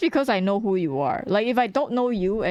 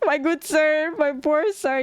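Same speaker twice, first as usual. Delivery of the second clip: mock posh; 6 semitones higher, slower than usual. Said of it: "And I'm like".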